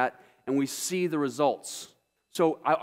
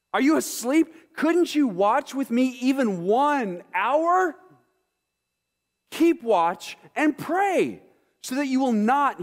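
surprised rebuke; 7 semitones higher, 4 dB louder, slower than usual. Acted. Jesus rebukes sleeping disciples.

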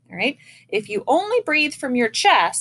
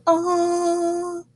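"Oh" round and relaxed from an open throat; 7 semitones higher than usual. Shown as a demonstration. Band teacher shows students the relaxed, open "Oh". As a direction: let "Oh" fall out easy and open. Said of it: "instead of".

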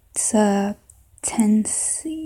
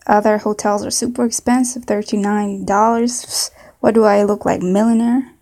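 put-on southern accent. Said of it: "maybe a southern accent".

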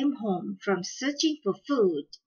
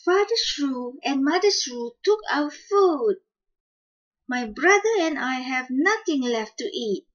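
put-on higher, childlike complaining chick; hatchling telling tales; 4 semitones higher, 3 dB louder than usual. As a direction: tell on the shrews in a small high voice. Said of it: "replied the older hatchling".

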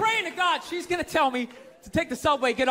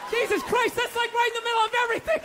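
mock panicky white guy; 8 semitones higher than usual. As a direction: play a scared tourist lost uptown. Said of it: "I'm like".

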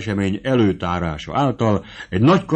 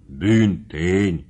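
slow, stunned stammer of one word; a servant stammering in disbelief; 4 semitones lower, much slower than usual. Acted. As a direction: falter it out in shock. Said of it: "dadogta Bubenyik".

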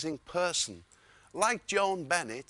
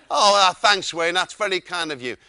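laughing; 9 dB louder than usual. Retold or imitated. Amused guest replies.

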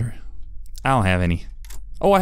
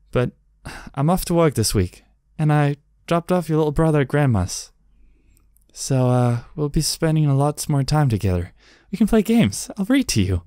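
lightly voiced mother talking to her child; a hint of a reassuring mom; understated mum, close to natural voice; smoother mom voice; 3 semitones higher than usual. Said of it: "like, a smoother voice".

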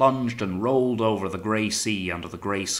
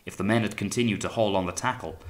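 ordinary delivery

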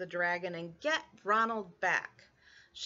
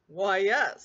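louder, smug yes; proud dragon; 2 semitones lower, 6 dB louder than usual. Acted. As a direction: dragon preening.

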